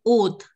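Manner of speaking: oath with a long "oh" vowel; students' mispronunciation. Retold or imitated. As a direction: mimic the class's wrong oath, "oht". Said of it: "All of you were pronouncing this as".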